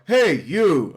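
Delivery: mock shout. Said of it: "I hear him go".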